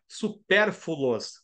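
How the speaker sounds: "supérfluos" said as su-PÉR-fu-los; common mispronunciation. Shown as a demonstration. Teacher quoting a common error, mispronounced "supérfluos" as "supérfulos". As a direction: slowly say "supérfluos" with the L moved after the U. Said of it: "fala assim também".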